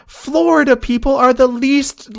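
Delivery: high, slow exasperated rant; laughing rant. Real, not acted. Laughing rant about Florida people.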